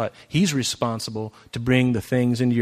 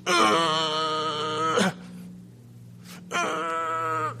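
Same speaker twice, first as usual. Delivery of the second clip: straining grunt; 3 semitones higher, 5 dB quieter than usual. Retold or imitated. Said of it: "he was going".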